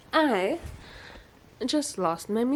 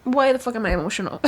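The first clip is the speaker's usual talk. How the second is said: fast, laughing at herself; half-laughing, half-teary disbelief; 3 semitones higher, 4 dB louder, faster than usual. Real, not acted. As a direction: laugh through the question. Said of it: "And I'm, like, so emotional".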